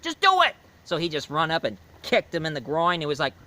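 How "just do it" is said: put-on high, loud yelling kid; kid's shout. The leader yelling at the horse, high loud shout. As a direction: shriek it like a panicked kid. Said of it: "he said".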